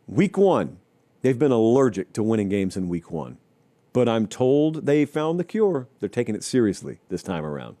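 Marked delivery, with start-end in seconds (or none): 3.9-7.8 mocking. Real, not acted. Sports host doubting the team's promised fix, mockingly. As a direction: say it as if you don't buy a word. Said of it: "I say that mockingly because I am mocking it".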